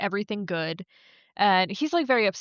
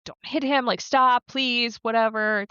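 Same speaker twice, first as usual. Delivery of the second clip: raised, lightly panicked pleading; mock freaking out; 3 semitones higher, 3 dB louder than usual. Christy begging the driver not to hit him, mildly frantic imitation. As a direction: retell her plea with a touch of alarm. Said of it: "Christy's freaking out. She's like".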